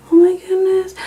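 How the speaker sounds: high excited whisper; whispered awe at a gift; awed whisper. Real, not acted. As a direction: gasp it out in a whisper.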